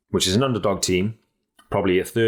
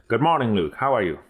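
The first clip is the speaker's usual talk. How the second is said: badly faked Irish accent, slightly raised pitch; terrible Irish accent; 4 semitones higher than usual. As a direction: have a poor go at an Irish accent. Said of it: "That was a terrible Irish accent".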